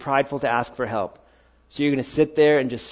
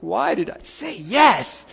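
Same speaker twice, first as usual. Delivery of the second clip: mock self-doubt; 6 semitones higher, slower than usual. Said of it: "I was like".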